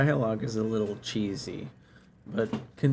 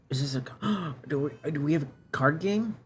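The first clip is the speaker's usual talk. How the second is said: excited; 4 semitones higher than usual. Real, not acted. Streamer spots a card game.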